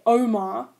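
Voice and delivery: "Omar" with the weight on the opening O; "Omar" stressed at the front, OH-mar. Shown as a demonstration. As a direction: lean on the first syllable of "Omar". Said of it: "the O has all of the emphasis".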